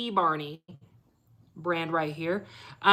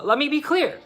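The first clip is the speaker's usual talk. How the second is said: Barack Obama impression; 5 semitones higher than usual. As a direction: do a presidential Obama address. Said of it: "I sound like Barack Obama".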